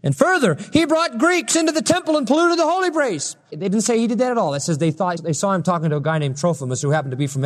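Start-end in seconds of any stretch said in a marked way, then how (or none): 0.0-3.4 preacher imitating an outraged crowd's charge; mock yelling. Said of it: "they started yelling".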